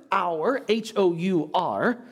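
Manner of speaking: "hour" said slowly, then spelled H O U R. Shown as a demonstration. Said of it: "sorry for my accent".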